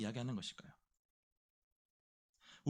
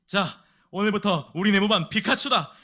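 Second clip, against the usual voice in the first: loud, raised announcing voice; proud introduction; 5 semitones higher, 9 dB louder than usual. Acted. Sergeant introducing the new Pikachu to the squad, announcing loudly. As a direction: announce it to the whole barracks. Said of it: "그날 밤에 병장이 소개합니다".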